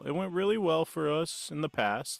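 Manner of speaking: sarcastic mock pride. Mocking the plotters, sarcastic pride. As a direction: say it like a proud fool.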